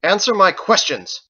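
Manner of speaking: high, loud, through clenched teeth; furious shout. Acted. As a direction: force the answer out of him in rage. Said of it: "growled at him through clenched teeth".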